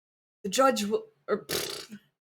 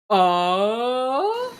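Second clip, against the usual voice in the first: shouting; 3 semitones higher, 4 dB louder than usual. Acted. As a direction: cry it out to stop them. Objection cry.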